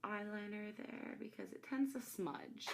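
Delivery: muffled, mouth covered; talking through a covered mouth; hand over mouth. Real, not acted. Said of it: "Sorry, I know that was really muffled just now".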